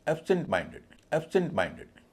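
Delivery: एब्सेंट lighter, माइंडेड weightier; stress on माइंडेड. Shown as a demonstration. Teacher modelling a compound adjective, stress on माइंडेड. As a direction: lean on the MIND of माइंडेड. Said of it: "एब्सेंट पे कम stress है".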